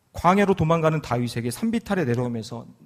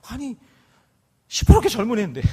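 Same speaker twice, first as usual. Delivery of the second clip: raised, incredulous outcry; exclaiming; 8 semitones higher, 7 dB louder than usual. Real, not acted. Pastor protesting to congregation, incredulous exclaim. Exclaiming about young child.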